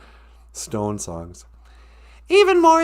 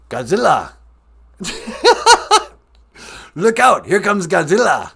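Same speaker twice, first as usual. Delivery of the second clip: mock dubbed movie; 3 semitones higher, 6 dB louder than usual. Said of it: "lazily translate Japanese movies".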